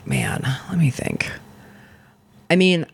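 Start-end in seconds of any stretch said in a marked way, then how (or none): 0.0-1.3 whispering. Real, not acted. Thinking aloud, quietly.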